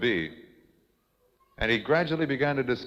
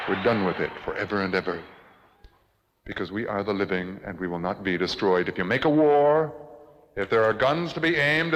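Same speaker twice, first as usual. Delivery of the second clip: grave defiant declamation; 2 semitones higher than usual. Acted. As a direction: state it like a solemn vow. Defiant manifesto, low and measured.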